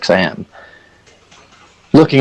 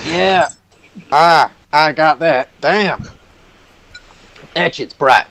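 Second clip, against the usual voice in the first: squinting Hercule; 7 semitones higher, slower than usual. Acted.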